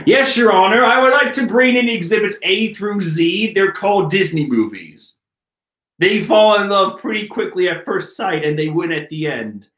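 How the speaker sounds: lightly voiced courtroom objection; mock lawyer. Arguing to Your Honor with exhibits, mock lawyer voice. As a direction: present the evidence with mock formality.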